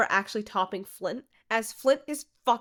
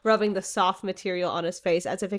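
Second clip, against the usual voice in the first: lightly read-aloud narration, a bit lower; story reading; 3 semitones lower than usual. Acted. Reading the fanfic excerpt to her co-host, story narration.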